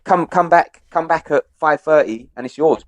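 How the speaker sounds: friendly American salesman impression; upbeat mock American shop assistant; American accent. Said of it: "Obviously in his American accent".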